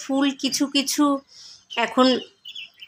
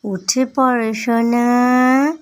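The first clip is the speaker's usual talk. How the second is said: sleepy husky good morning; much slower than usual. Real, not acted. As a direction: gently coax him awake, slowly. Waking little brother, soft calling.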